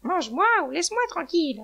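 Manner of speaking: high, loud, cross hen; angry. A narrator's reading. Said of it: "répondit la poule fâchée".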